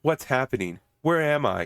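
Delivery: stilted amateur acting; reading from cue cards. Mocking an amateur actress's delivery, cue-card reading. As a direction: deliver it like lines read off to the side. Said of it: "like she's reading from cue cards".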